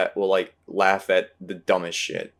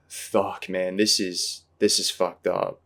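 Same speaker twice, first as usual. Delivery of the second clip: depressed reaction; slower than usual. Retold or imitated. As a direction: say it subdued, as if mildly bummed out. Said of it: "in a depressing way".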